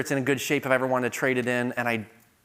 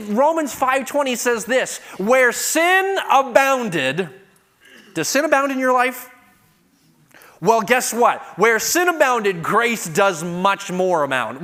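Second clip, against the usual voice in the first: higher, louder impassioned sermon; fiery preaching; 8 semitones higher, 6 dB louder than usual. Acted. Preacher exhorting the congregation, loud and high. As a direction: drive the point home to the congregation.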